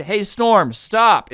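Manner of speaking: loud, high call outdoors; mock shouted command. Going outside to order the storm away, mock shouting.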